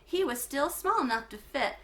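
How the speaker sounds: clear, lively read-aloud for a class; story narration. A narrator's reading. Teacher reading a chapter book to her class, lively narration.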